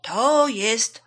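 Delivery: slow, loud, stretched guesses; drawn-out emphatic zebra; calling out. A narrator's reading. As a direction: announce it loudly, then correct yourself. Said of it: "zawołała zebra".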